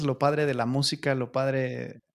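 breaking up on a bad call line; cutting out. Real, not acted. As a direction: voice dropping out over the connection. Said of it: "Se está cortando".

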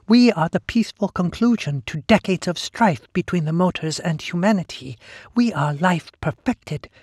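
high, smooth inhuman chorus; eerie hive-mind voice. Acted. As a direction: tempt him like a serene monster. Sister Lee persuading Bloom.

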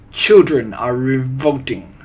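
loud, imperious witch declaration; forceful villainess outcry; screamed. A narrator's reading. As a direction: proclaim it loudly as a ruling witch. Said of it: "screamed the Grand High Witch".

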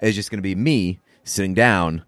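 mock talk show host pitch. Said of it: "the balls to be able to be like".

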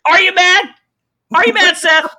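high, loud taunting shout; mock yell.

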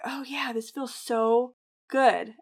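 slow, savoring self-talk; mock-dreamy runner's bliss. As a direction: relish the feeling, stretching the words out. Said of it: "this really cool feeling".

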